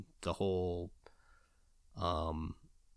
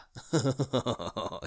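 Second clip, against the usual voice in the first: giddy laugh; 5 semitones higher than usual. Pretend. Giddy over imagined box set.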